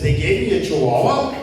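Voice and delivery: punchline delivered as outraged surprise with a laugh; mock shock. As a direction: act stunned at the news, cracking up. Punchline, woman shocked at her dog.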